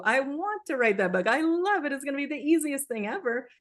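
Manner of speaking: high, bright mock enthusiasm; forced cheerfulness. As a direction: gush like you're faking it. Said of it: "you can't go right to".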